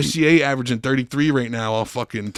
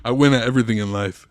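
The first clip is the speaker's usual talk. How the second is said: laughing mock quote; 4 dB louder than usual. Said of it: "dumbass fortune cookie quotes".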